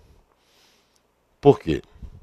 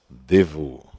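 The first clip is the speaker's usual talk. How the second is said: "devo" set apart with pauses; single out "devo" as a careful warning; stress on devo; 3 semitones lower than usual. Shown as a demonstration. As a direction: land firmly on "devo", then stop.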